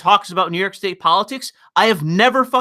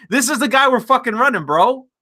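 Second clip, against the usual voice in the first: mock party bro. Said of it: "just been like".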